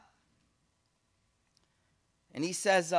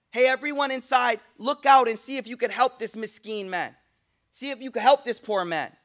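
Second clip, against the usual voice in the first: louder, higher call to the crowd inside; 4 semitones higher, 5 dB louder than usual. Acted. Voice from the castle calling to those inside, ringing call. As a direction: summon everyone to the windows.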